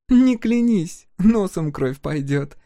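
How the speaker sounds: высоко, медленно, с насмешкой; протянуть с издёвкой; насмешливо. A narrator's reading. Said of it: "насмешливо предупредила она". (погорелица насмешливо одёргивает Дакуку)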